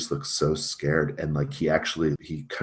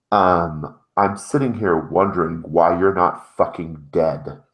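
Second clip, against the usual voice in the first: slow, louder cold anger; menacing Thomas; 2 semitones higher, 6 dB louder, slower than usual. Acted. Thomas over the intercom to the failed delivery boy, slow and angry. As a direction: draw it out as a slow threat.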